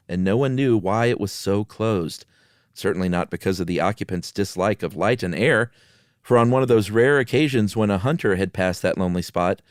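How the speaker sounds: measured storytelling read over eerie music; unhurried spooky story voice; story narration. Acted. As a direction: read it like a spooky campfire tale. Story reading continues.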